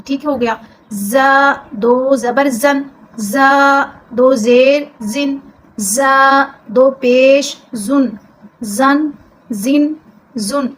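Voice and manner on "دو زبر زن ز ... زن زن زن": زن said with a hissing whistle, slow drill; whistled zay. Shown as a demonstration. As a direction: let the ز whistle as you spell it slowly. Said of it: "یہ زا سیٹی کی آواز آئے گی".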